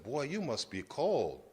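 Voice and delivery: light southern twang, slowly drawn out; a hint of imitated southern drawl. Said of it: "said in a southern twang".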